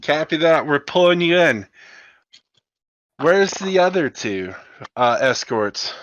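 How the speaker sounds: brisk controller pulling a pilot in; hangar controller. Acted.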